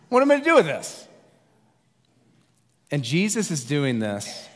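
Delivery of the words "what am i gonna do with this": higher, louder, laughing through it; mock panic with a laugh; laughing exasperation. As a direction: disciple holding half a pizza, laughing helplessly. Disciple voiced, laughing exasperation.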